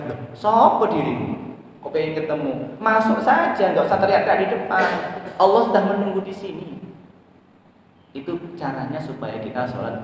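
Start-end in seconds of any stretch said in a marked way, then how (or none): 0.1-6.8 angel's voice. Acted. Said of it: "Dari malaikat".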